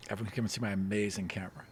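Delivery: fast unvoiced whisper. Real, not acted. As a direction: whisper it quickly, half to yourself. Aside while setting up camera.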